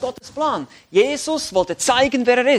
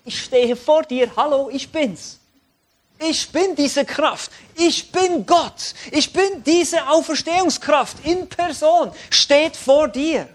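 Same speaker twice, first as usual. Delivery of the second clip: slow, higher, emphatic proclamation; eindringliche Selbstoffenbarung; 6 semitones higher, 4 dB louder, slower than usual. Acted. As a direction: declare it grandly, every word weighted. Preacher voices Jesus to Martha emphatically. (feierlich-eindringlich verkündet, langsam und höher)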